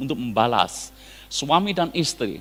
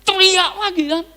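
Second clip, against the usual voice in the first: higher and louder, building up; each line louder, with a laugh in it; escalating shout; 13 semitones higher, 6 dB louder than usual. Shown as a demonstration. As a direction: show the quarrel climbing. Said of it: "Tambah keras".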